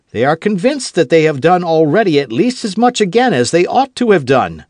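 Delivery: high, loud Gascon bluster; quarrelsome heat. Acted. D'Artagnan lecturing Aramis, hot-tempered and loud. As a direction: push back hot-tempered. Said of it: "quarrelsome spirit began to speak more loudly".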